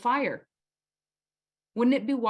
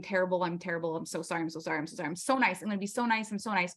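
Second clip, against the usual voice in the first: self-deprecating mumble; 2 semitones lower, 3 dB quieter, much faster than usual. Retold or imitated. A guilty woman berating herself after an outburst, softly. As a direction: mumble apologies to yourself. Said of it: "self-deprecating".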